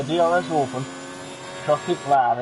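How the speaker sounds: DRS open in a Northern English accent, "Orphan" with a flat northern vowel; playful northern English accent. Shown as a demonstration. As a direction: slip into a northern English commentator voice. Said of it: "I suddenly went northern there".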